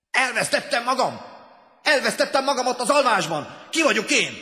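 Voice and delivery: high, loud cry of someone lost; panicked shout. A narrator's reading. Lost man crying out after waking, high shout. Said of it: "kiáltotta".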